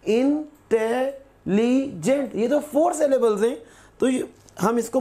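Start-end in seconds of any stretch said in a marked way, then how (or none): 0.1-2.3 इंटेलिजेंट said very slowly as इं-टे-लि-जेंट, rising; slow syllable split. Shown as a demonstration. Teacher breaking the word into syllables for students, very slowly. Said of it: "syllables तोड़ के देखते हैं".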